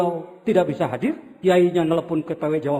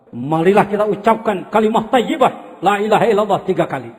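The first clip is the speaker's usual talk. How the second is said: a touch louder leading the crowd; Habib Zain; 4 dB louder than usual. Pretend. Habib Zain inviting the Maulid crowd to recite the dhikr. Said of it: "Ini Habib Zain".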